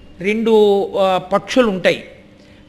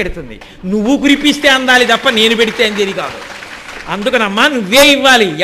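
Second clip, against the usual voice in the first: louder pleading prayer to the mother goddess; fervent plea; 3 dB louder than usual. Acted. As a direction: implore her with rising force.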